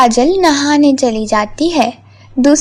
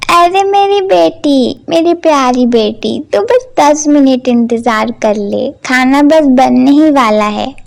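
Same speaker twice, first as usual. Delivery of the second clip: coaxing. Acted. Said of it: "अपनी बेटी को मनाते हुए कहती है".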